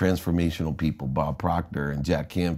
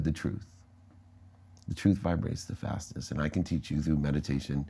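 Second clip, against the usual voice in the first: softer, calm and gentle voice of the doctor; calm teacher; 2 semitones lower, 4 dB quieter than usual. Retold or imitated. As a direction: quietly draw him toward the truth. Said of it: "She said".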